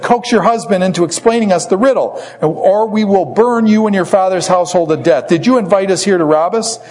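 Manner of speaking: lightly acted angry demand; mild threat. Philistines threatening Samson's wife.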